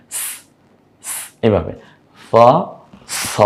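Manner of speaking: স said softly, a gentle hiss. Shown as a demonstration. Teacher demonstrating soft স to students. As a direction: breathe the স out softly like sea sea. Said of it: "নরম আওয়াজে".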